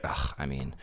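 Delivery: low, quiet muttered complaint; muttering. Retold or imitated. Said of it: "You just keep muttering".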